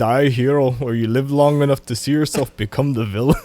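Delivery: put-on low Austrian action-star accent; lightly done Austrian accent; Arnold. Friend changing accents on the hero quote, Austrian. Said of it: "was that Arnold?".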